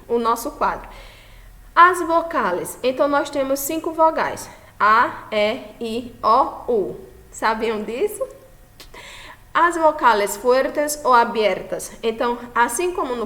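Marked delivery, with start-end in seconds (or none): 1.8-2.8 higher, louder, slow heading read; announcing heading. Shown as a demonstration. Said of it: "title read". 9.5-11.9 slow, louder announcing voice; slow heading read. Shown as a demonstration. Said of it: "title read".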